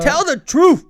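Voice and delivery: put-on loud Nigerian-accented demand. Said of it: "that South African accent or whatever it is".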